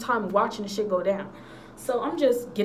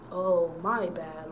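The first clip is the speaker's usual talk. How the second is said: nonchalant; 5 semitones lower, 3 dB quieter, much slower than usual. Retold or imitated. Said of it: "I wasn't a nonchalant kid".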